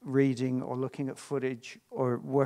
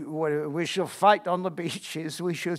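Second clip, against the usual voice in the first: Churchill speech; 3 semitones higher, 4 dB louder than usual. Acted. Rehearsing Churchill speech at home.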